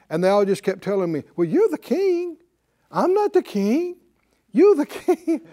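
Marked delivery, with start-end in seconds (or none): 1.4-5.4 protesting staff. Retold or imitated. Staff telling the boss it is his job, protesting. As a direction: imitate helpless underlings in a raised pitch. Imitates staff all refusing him.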